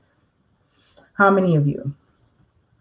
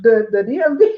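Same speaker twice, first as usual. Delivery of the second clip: hammed-up scorn, jumping much higher; mock sarcastic call-out; 4 semitones higher than usual. Notary mocking a sarcastic clerk talking to a customer. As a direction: sneer at the paper-thin ID. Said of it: "don't just be like".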